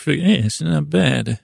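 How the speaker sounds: a hint of a Godfather; slow mild Godfather voice; lightly done Godfather. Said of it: "like a Godfather".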